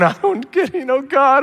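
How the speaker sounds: high pleading complaint to God; lightly voiced anguished Job; Job lamenting. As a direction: cry up at God in confusion. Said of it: "and Job going".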